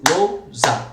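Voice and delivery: "lousa" em duas sílabas, lou e sa; separação silábica. Shown as a demonstration. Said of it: "ficaria assim". ("lousa" escandida, com "ou" junto)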